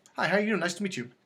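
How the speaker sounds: high-pitched head voice placed up in the forehead. Showing a listener a voice coming from the forehead: high-pitched head voice. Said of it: "can you hear how my voice is coming from my forehead".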